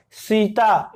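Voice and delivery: सीता with the tongue touching the teeth, dental s. Shown as a demonstration. Teacher models dental सीता for students, crisp dental s. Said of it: "जिह्वा है वो दंत को छू गई".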